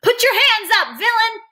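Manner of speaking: high, loud, heroic little shout; small faraway voice. A narrator's reading. Freak challenging the villain from afar, small high shout. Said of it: "small, faraway voice is saying".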